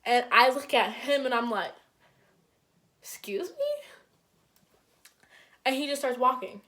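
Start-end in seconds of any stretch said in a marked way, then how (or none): 3.0-3.9 high breathy whispered disbelief; whispered excuse me. Retold or imitated. To the cheating boyfriend, a high whispered excuse me. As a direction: hiss it under your breath, stunned.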